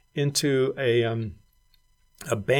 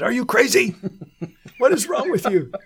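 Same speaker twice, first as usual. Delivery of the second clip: much higher, laughing, exasperated wife; laughing mock scold; 12 semitones higher, 6 dB louder than usual. Wife laughing at husband for refusing to teach, exasperated. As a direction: tease him like a disbelieving wife, laughing.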